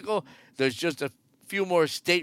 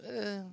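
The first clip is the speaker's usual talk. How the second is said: grunt; 6 semitones higher, 9 dB quieter than usual. Retold or imitated. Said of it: "a lot of grunts and groans".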